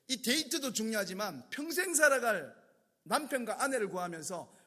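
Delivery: insistent, exasperated telling-off, mildly heated; angry scolding. Retold or imitated. Pastor scolding engaged couple for not reading, exasperated. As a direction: re-enact a counsellor's lecture with a touch of anger. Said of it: "그럼 제가 막 화를 내죠".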